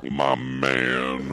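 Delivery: flat robotic greeting; a hint of robot in the cool greeting; robotic cool guy. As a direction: say it like a stiff robot. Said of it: "a little bit robotic there".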